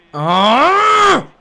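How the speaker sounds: high, loud cry of frustration; frustrated yelp. Real, not acted. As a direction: yelp as the chance goes. Chance missed.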